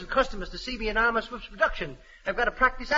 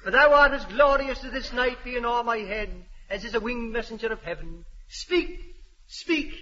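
hammy Shakespeare declaiming; Romeo. Acted. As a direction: overblown romantic pleading. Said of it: "read the part of Romeo".

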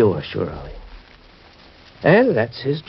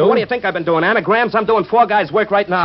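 higher, indignant protest; indignant retort; 10 semitones higher than usual. Acted. Joe to his boss, indignant and higher. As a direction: fire back, offended.

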